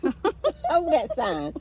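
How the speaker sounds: slow, laughing through the words; drawn out with a laugh. Real, not acted. Laughing at holding up sign.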